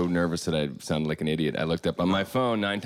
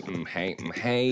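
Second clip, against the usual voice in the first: Simpsons nerd voice; slower than usual. Pretend. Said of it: "the Simpsons chemistry character".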